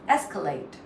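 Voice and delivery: ES-calate with weight on ES; first-syllable stress. Shown as a demonstration. Teacher reminds learners of the rule, first part stressed. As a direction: stress the opening of escalate, falling away after. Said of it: "You stress on the first part".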